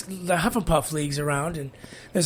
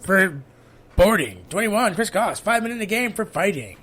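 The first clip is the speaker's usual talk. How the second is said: booming PA announcer voice; arena announcer; 4 semitones higher, 3 dB louder than usual. Retold or imitated. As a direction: call it like a rink announcer. Imitating hockey arena announcer.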